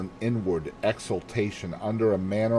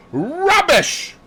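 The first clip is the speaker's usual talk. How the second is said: loud, much higher scornful shout; angry outburst; 7 dB louder than usual. Acted. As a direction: spit out the dismissal. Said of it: "cried Lawrence angrily".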